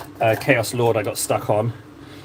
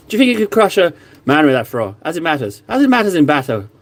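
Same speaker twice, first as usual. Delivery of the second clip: put-on Scottish accent; 3 semitones higher than usual. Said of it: "My Scottish accent turns a little Irish".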